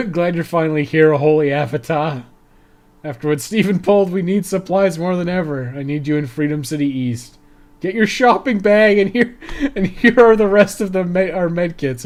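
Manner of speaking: excited mission boss handing out supplies; hammed-up quest giver. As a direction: play the cheery quest giver over the top. Streamer voices quest giver.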